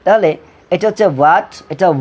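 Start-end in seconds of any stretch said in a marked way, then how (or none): 1.2-1.5 "what" said as "wat", straight on w; W without h. Shown as a demonstration. Teacher recaps the word for students, w without h. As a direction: push the w of "what", no h. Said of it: "ধাক্কা দিয়ে হবে".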